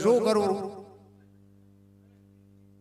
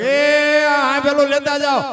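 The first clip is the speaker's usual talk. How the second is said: calling out; 5 semitones higher, 8 dB louder than usual. Acted. Man calls after fleeing guests.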